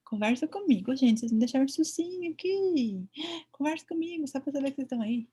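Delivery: mock pleading. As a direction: beg the students to answer. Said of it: "a gente ia falar o quê".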